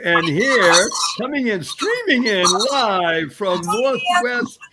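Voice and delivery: slow, grand guest introduction; announcer intro. Real, not acted. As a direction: build it up like a show host.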